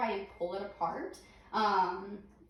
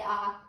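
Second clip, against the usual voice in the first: saying ahh. Shown as a demonstration. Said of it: "open your mouth and say".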